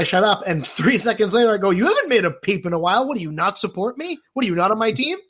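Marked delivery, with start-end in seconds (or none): 1.7-5.2 raised, accusing mock activist. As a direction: demand loyalty, hammed-up.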